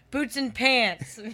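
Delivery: slow giggling chant of the words; laughing mockery. Real, not acted. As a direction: drag it out while laughing. Mocking misheard intro.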